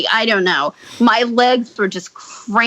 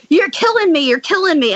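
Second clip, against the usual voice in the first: retold pained protest; 5 semitones higher than usual. Acting out stabbed man's protest.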